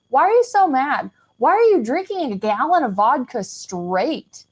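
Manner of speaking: sing-song swoops of mock questioning; retold incredulous questioning. Questioning the angry drinker about the vodka, incredulous. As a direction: question in disbelief, pitch rising and dipping. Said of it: "So I started questioning".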